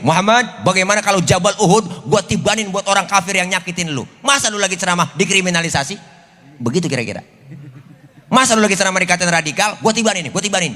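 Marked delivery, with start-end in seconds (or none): 0.0-6.0 mildly angry Jibril. Retold or imitated. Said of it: "Bayangin malaikat Jibril yang marah". 8.3-10.8 mildly angry Jibril. Retold or imitated. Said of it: "Bayangin malaikat Jibril yang marah".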